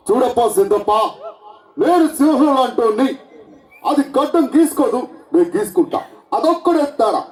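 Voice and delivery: lightly voiced punchy hero dialogue; a hint of the star's swagger; mock film-hero delivery; Pawan Kalyan impression. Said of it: "ఇప్పుడు నేను చేసేది power star Pawan Kalyan sir".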